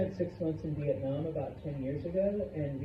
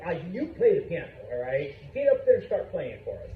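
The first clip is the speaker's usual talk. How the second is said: urging statement; faster than usual. Shown as a demonstration. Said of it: "Seth here is being shy, and I'm like".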